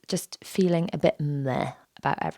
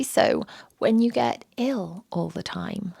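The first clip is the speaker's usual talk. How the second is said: croaking. Real, not acted. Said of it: "croaking at you into her microphone".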